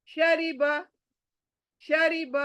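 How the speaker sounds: शरीब with a thin light री. Shown as a demonstration. Teacher models शरीब, thin R. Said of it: "यहाँ पर भी रे बारीक".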